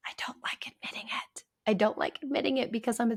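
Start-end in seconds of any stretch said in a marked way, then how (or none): 0.1-1.4 hushed whisper of a reluctant admission; quietly. Real, not acted. Therapist confessing to listeners a weakness, whispering. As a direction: let the words slip out under your breath. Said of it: "do you notice I have to say that, like, quietly".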